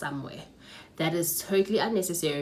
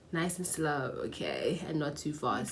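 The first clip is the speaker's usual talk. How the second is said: softening, measured attempt at slowing down; nice and slow; 2 semitones lower, 4 dB quieter than usual. Shown as a demonstration. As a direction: try to rein in the rush. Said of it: "I'm gonna try to be".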